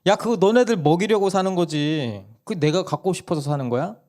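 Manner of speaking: 높고 큰 소리로 어이없어하는 엄마; 기가 막힌 듯 되묻기; 황당한 엄마 흉내. Retold or imitated. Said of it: "그 엄마가 황당한 거예요". (막내에게 황당해하는 아내 말투)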